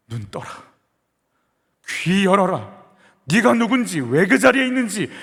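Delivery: put-on the Lord reasoning with his child, then pressing hard; voice of God. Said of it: "말씀해 주시는 거예요".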